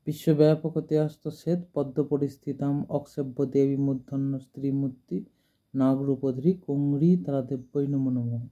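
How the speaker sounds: even, sustained Sanskrit chant; mantra recitation. Acted. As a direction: recite in one steady, near-monotone flow.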